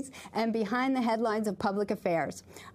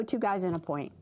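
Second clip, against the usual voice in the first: put-on Irish accent on "Pint"; 5 semitones lower than usual. Host playfully asks guest about the show's name, Irish accent. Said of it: "I was using an Irish accent".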